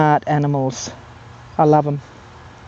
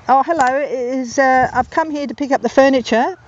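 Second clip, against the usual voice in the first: grandfather voice; 7 semitones higher than usual. Retold or imitated. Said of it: "he said".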